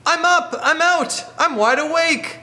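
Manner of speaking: high chipmunk voice. Acted. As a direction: pipe up like a tiny chipmunk. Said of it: "And the chipmunk says".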